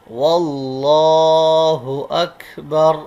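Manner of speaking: अकबर ends on bare r, no final u; pausal form. Shown as a demonstration. Teacher showing अकबर with pausal ending, no u. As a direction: stop on अकबर without the vowel. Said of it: "stop हो रहा है तो अकबर पढ़ेंगे".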